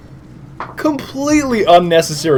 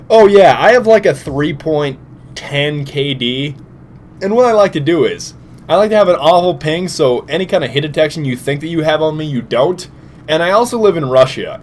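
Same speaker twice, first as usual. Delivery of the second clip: lightly mimicked boastful gamer; Russian troll. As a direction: parody a troll bragging about his stats. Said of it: "He is the biggest Russian troll".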